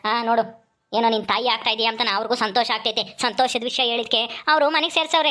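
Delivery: lightly voiced brother, pitched above the narrator's voice; advising elder brother. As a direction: counsel a younger sister firmly, in a slightly put-on voice. Acts elder brother advising his sister. (ಬುದ್ಧಿ ಹೇಳುವ ಅಣ್ಣನ ಪಾತ್ರದ ಧ್ವನಿ)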